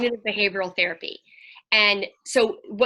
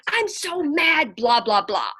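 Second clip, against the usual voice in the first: imitating an upset kid, high and slow at first; retold kid's tantrum, lightly done; mock mad outburst; 4 semitones higher, slower than usual. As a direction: play a kid blurting it out, then trail into blah-blah. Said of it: "it was wrong to be mad".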